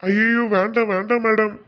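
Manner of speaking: frantic, tearful plea not to be blamed; pleading in panic. Acted. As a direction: beg them to stop, half crying. Accused man begs the lady.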